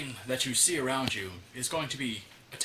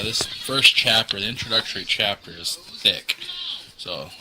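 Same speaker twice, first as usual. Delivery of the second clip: mock dramatic reading; 2 semitones lower, 5 dB louder than usual. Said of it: "I was having fun reading that".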